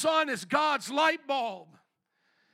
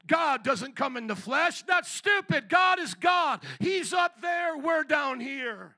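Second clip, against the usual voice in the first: scoffing objector; 2 semitones higher, 4 dB louder than usual. Acted. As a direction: dismiss it as absurd, voice climbing. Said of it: "to the Jewish person, it was a joke".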